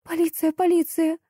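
high, eager repetition; eager agreement. Acted. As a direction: grab onto the fact eagerly. Nodding eagerly.

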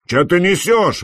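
indignant. A narrator's reading. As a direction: scoff at the nonsense, offended. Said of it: "возмутился Пегоусый".

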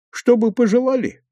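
резко выше, с недоумением; переспросить с удивлением; удивлённый переспрос. A narrator's reading. Совхоз переспрашивает с насмешкой. (удивлённо переспрашивает)

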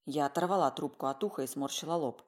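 plain reading voice

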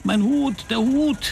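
high, escalating quoted cry; narrated scream. A narrator's reading. Narrator quoting the old woman about her hat, crying out. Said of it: "schrie sie".

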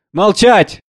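shouting. Acted. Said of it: "Ты не смеешь так на меня кричать".

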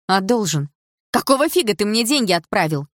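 put-on high-pitched indignant girl; nearly shrieking girl. A narrator's reading. Girl demanding answers about money sent to her, high and outraged. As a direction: pitch climbing toward a squeal. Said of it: "Едва не перешла на ультразвук девчонка".

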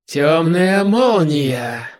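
slow drawn-out spell call; spell incantation. Acted. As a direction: intone the spell name slowly. Demon casts a spell.

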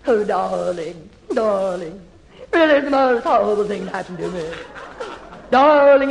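Tallulah Bankhead. Acted. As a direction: purr it like a stage diva. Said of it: "Great actresses like Tallulah Bankhead".

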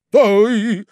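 высокий громкий окрик; обрывает начавшийся гам; крик. Acted. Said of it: "закричал господин Прохарчин". (Прохарчин обрывает крик)

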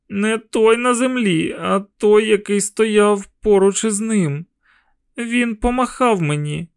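put-on a boy insisting on what he saw; insistent boy. A narrator's reading.

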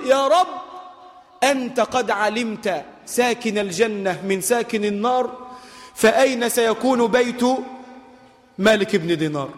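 slow, imploring call to God; pleading prayer. Acted. Voicing Malik's night prayer. (دعاء متضرع بطيء)

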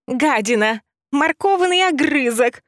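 very high, loud furious cursing; screeching insults. Acted. Rabbit screaming curses at the heroine. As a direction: spit the insults in a rage.

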